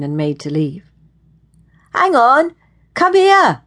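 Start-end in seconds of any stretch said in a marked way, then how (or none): 1.9-3.6 loud, high, urgent call; demanding. A narrator's reading. Young man behind a woman who is leaving, demanding. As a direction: order her back, voice leaping up. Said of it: "The voice behind her was demanding now".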